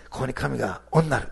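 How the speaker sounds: Nagasaki dialect phrase おんなる, said tentatively. Shown as a demonstration. Pastor tries out the woman's Nagasaki dialect for the congregation, tentative. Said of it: "長崎弁で".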